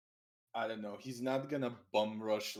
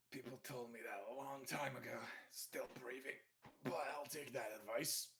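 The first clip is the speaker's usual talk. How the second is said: subdued reply; 12 dB quieter than usual. Acted. Player's character answering a threat to their life, subdued. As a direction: answer quietly after a sigh.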